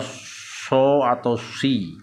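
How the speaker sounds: slow, heavy s in "so" and "si"; emphatic Arabic Sad in "so atau si"; lips extended for Sad. Shown as a demonstration. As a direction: say "so", then "si", with lengthened lips. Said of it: "ini dipanjangkan bibirnya".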